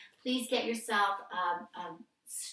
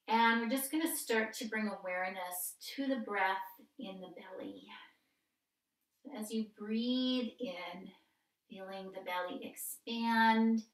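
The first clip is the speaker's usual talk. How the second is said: calm, measured breath-cue delivery with pauses; guided yoga practice. Real, not acted. Yoga teacher guiding a seated breath warm-up, calm instructional voice. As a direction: lead gently through breath and movement, lengthening the cues.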